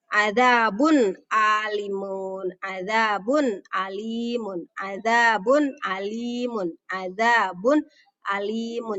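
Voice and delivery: "alimun" starts on a clean, separate A after adzabun; measured recitation, crisp A in "alimun"; clear A. Shown as a demonstration. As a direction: sound the n of "adzabun" without humming, then a clear "alimun". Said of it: "Jadi A-nya jelas".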